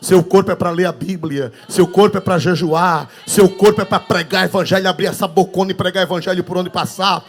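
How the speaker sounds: loud, driving pulpit cadence, every line hammered; preaching at full force. Acted. Pastor exhorting the congregation on the body, preaching loudly. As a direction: preach it out to the whole church.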